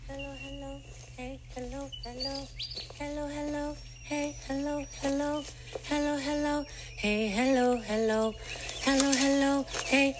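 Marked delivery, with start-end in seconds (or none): none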